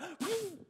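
high, sudden gasp; mock gasp. Man retelling the ride's first lurch, gasping. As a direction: suck in air as the ride lurches up. Imitates his gasp as ride rose.

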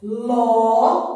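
"Ló" loud and held on its own; separated syllable. Shown as a demonstration. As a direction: isolate "Ló" as a long, loud syllable. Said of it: "Nós estamos separando as sílabas".

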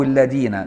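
الذين with plain d for ذ; tongue kept in, الذين as 'iledina'; d instead of dh. Shown as a demonstration. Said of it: "بالزاي أو الدال مهملة".

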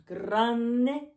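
loud, stretched word; big voice. Shown as a demonstration. Teacher showing grande in a loud, big voice. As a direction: make grande sound huge. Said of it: "big and small".

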